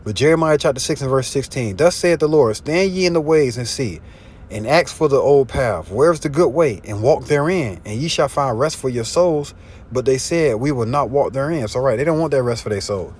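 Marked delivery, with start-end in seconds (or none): 1.8-11.7 scripture preaching. Acted. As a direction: declaim it like a prophet's warning. Reads scripture aloud, preaching.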